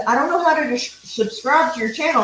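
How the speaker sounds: a hint of her mother; quoting mom. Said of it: "she says".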